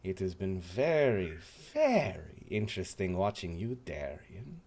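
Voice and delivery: a fussy French host warning of the paladin; French accent. Acted. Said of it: "trying to figure out his accent".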